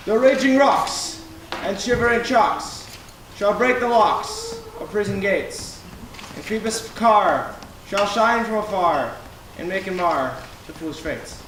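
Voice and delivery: grand, booming verse; lofty tyrant ranting. Acted. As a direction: rant it like a stage tyrant. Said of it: "This was lofty!".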